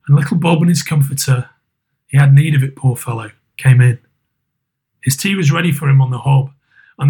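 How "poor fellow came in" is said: plain reading voice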